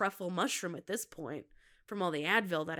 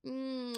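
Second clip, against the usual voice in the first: mock-smooching "mm"; pretend kiss hum; 3 semitones higher, 6 dB quieter than usual. Host playfully kissing the coffee cup, pretend smooching hum. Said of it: "I'm kissing my coffee".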